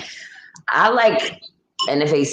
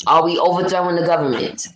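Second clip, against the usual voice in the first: attempted English accent. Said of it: "trying to say that in an English accent".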